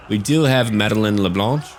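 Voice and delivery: a light put-on French accent on her name; faux French accent. Shown as a demonstration. Player introducing Madeleine LeBlanche, lightly French-accented. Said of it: "my faux French accent".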